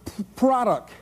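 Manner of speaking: slow stammering friend voice; imitating stutter. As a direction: stutter through it haltingly. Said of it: "she stutters".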